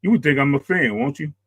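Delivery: ordinary talk, nothing marked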